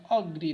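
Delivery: "अग्री" opening on a weak "अ"; unstressed first syllable. Shown as a demonstration. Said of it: "unstress है". ("अग्री" में "अ" पर बिना बल)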